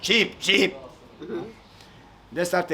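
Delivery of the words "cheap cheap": chick chirp. Acted. Bird chirps again.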